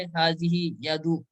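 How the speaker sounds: حاضی یدو said slowly and left open; slow model reading. Shown as a demonstration. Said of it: "کیا آئے گا؟".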